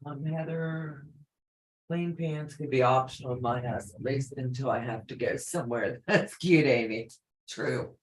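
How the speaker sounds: far from mic. Real, not acted. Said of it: "but you sound like you're far away".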